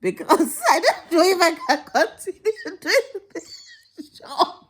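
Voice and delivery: high, drawn-out fake sob; hammed-up tearful complaint; mock wailing. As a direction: whine it like you're about to bawl. Mock-tearful complaint about the job.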